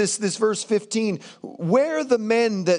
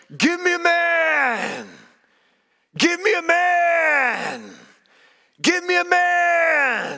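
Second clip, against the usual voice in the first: mock cry in huge giant voice, pitched up, long; 8 semitones higher than usual. Retelling how the enemy defies Israel's armies, crying out in a giant voice. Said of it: "he just cries out in that giant voice".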